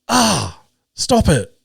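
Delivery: high, mock pained yelps of a young boy; imitating kid's pained yelp. Kid yelling at game again.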